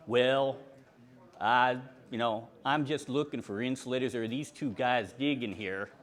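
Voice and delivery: lightly voiced monotone kid; monotone boy. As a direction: imitate a boy's level, drawly answer. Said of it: "he was a little monotone".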